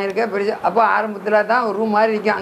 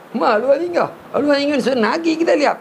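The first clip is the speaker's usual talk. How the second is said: raised pitch, insistent questioning; acted challenge; 5 semitones higher than usual. Teacher challenging pupils about the dead father's tongue, high and insistent. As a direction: press the question in a higher voice.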